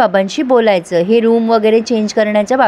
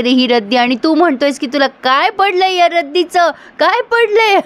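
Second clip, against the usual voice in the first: filmy dramatic rant. Retold or imitated. Kuki lectures Shashank on the scrap paper, filmy and building. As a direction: ham up a melodramatic Hindi-film monologue, climbing to the end. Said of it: "आता कुकी फार drama करतोय".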